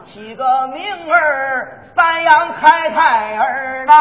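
slow, sung-out peddler cry; hawker's call. Acted. Peddler names the fur, drawn-out vendor cry. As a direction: stretch each word like a street vendor. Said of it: "这就是北京故意".

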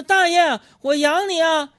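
high, loud, hammed-up love vow; mock movie line. Man quoting a movie vow to an old man, hammed-up high and loud. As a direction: belt the famous line like a lovesick hero. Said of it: "当我说一句说".

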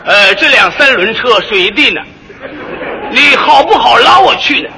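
loud, laughing mock movie guoyu; hammed-up prissy passenger; film-star Mandarin. Mocking a passenger hailing a pedicab, stagy. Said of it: "走街上都那路北京话".

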